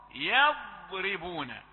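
يضربون very slow, heavy dad, light ra; correct recitation. Shown as a demonstration. Teacher models for students, very slow recitation. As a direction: stretch يضربون keeping the ra thin. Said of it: "فلا تجعلها تؤثر في الراء المرققة".

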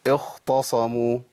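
اختصموا with the ت made thick and emphatic; wrong heavy taa; mispronounced with heavy taa. Shown as a demonstration. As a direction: imitate the common error on اختصموا, heavy ت. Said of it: "أخونا يقول".

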